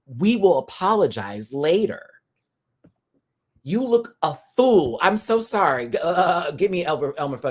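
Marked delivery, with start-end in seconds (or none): 3.6-5.0 mocking jab. Real, not acted. Mocking the contestant.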